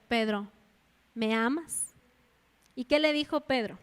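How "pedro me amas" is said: the Lord questioning. Acted. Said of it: "El Señor le dijo".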